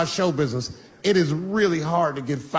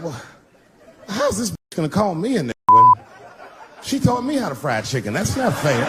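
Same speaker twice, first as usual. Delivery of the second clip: indignant; 2 semitones higher than usual. Retold or imitated. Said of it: "I was just like".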